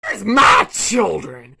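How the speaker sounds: drawn-out, loud crying demand; villain frog wailing for his children; slow wailing shout. Acted. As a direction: howl it slowly like a wronged parent.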